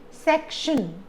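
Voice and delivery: section with the first syllable SEC stressed. Shown as a demonstration. Teacher shows the rule, stressing section on SEC. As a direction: lean on SEC and let the ending go in section. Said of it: "second last syllable here is sec".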